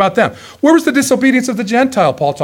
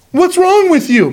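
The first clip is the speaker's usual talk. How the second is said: slow, higher, sneering challenge; mocking God; 8 semitones higher than usual. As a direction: taunt the sky, drawn out and up. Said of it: "mocking God".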